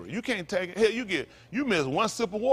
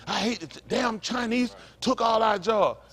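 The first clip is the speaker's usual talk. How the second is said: mock white bigot; 3 semitones higher than usual. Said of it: "White people say all the time".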